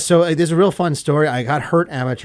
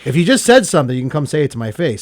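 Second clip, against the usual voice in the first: confrontational call-out; 2 semitones higher, 7 dB louder, faster than usual. Retold or imitated. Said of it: "And I'm like".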